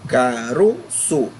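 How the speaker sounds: caroço drawn out slowly, "ro" stressed; stress on middle syllable. Shown as a demonstration. Teacher points out the strong syllable, slow caroço stressing "ro". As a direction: stretch caroço and lean on "ro". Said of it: "Esse ro é pronunciado com mais força".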